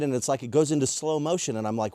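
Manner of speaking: ordinary delivery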